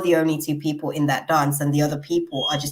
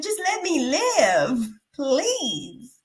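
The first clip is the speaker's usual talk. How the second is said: pleading; 9 semitones higher, much slower than usual. Retold or imitated. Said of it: "I'm like".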